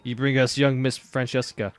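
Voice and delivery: put-on a light Chicago gangster accent on game goons; Chicago mobster accent. Mob underling asking the hero to fetch the boss's daughter, in a mild Chicago gangster accent. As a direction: play the mob henchman with a touch of Chicago. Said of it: "conflict with my Chicagoan, whatever accent that I'm trying".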